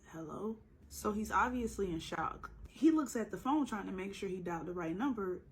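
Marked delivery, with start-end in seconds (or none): 0.1-0.6 raspy voice. Retold or imitated. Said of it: "in a really raspy voice says".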